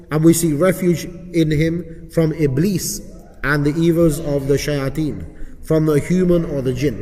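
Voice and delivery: dictation pace with long pauses between phrases; slow repeat reading. Shown as a demonstration. Teacher repeating the supplication so students get it, slow dictation. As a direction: read it out slowly, leaving gaps to follow. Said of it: "I'll read it a bit slowly for you".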